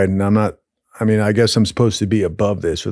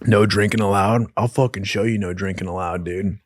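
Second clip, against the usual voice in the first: defiant muttering; 3 semitones lower, 5 dB quieter than usual. Retold or imitated. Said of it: "I'm just like".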